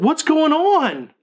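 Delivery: high, slow, panicked demand; dad panicking at the sight of his son's eye; freaked-out cry. Retold or imitated. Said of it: "I freaked out".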